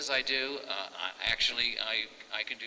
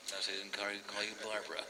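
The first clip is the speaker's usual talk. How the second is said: Bullwinkle voice; faster than usual. Shown as a demonstration. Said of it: "I was the second voice of Bullwinkle".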